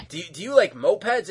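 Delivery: a creepy pitch cracking into a laugh; mock creepy boss laughing; creepy offer. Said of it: "Bob's like".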